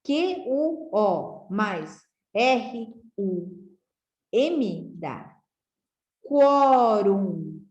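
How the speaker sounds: spelled out slowly, each letter set apart; slow letter-by-letter spelling. Shown as a demonstration. Teacher spelling quatro out for pupils, slowly. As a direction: build the word for the class piece by piece. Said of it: "vai juntar aqui".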